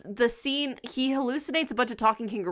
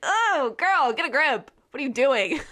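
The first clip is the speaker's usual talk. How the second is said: sassy quote; 3 semitones higher than usual. Retold or imitated. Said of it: "she's like".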